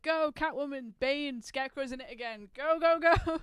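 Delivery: mock rallying command. Mock commander sending characters in.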